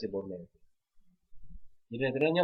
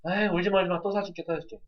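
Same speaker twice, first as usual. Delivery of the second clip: put-on higher, coaxing soothe of a crying child; indulgent parent; 6 semitones higher than usual. Parent hushing a crying child, mildly coaxing. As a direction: lightly play the parent who spoils.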